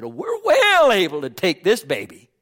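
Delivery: loud, high, eager boast; bold cry. Retold or imitated. Caleb rallying the group to take the land, bold cry. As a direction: crow it boldly as Caleb, stretching WELL.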